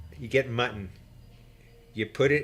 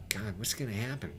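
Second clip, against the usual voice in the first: much softer, low anxious murmur; hushed worry; 4 semitones lower, 12 dB quieter than usual. Retold or imitated. Nervous deckhand wondering aloud while crew listens, hushed worry. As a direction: ask it under your breath, scared.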